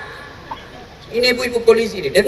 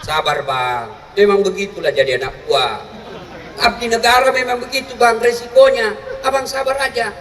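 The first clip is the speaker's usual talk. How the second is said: mock tender wife. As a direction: soothe him like a loving wife. Ideal wife comforting husband.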